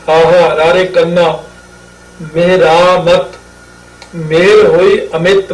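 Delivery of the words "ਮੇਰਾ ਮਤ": ਮੇਰਾ ਮਤ in measured syllables, long raa; spelt-out pronunciation. Shown as a demonstration. Teacher spelling letter by letter, ਮੇਰਾ ਮਤ carefully sounded. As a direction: sound out ਮੇਰਾ ਮਤ evenly as meh-raa-mat. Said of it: "ਮੰਮੇ ਨੂੰ".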